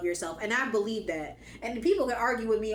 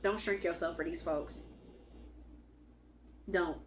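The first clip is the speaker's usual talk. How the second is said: quieter, more intimate repeat; softer repeat; 3 semitones lower, 7 dB quieter than usual. Shown as a demonstration. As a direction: let it land softly. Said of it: "repeated softer".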